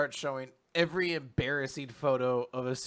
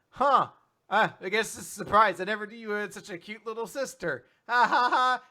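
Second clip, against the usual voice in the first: higher, louder chuckling delivery; hammy laughing mom; 7 semitones higher, 7 dB louder than usual. Retold or imitated. Mom teases Uega, loud hammy laugh. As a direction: laugh it off with put-on cheer.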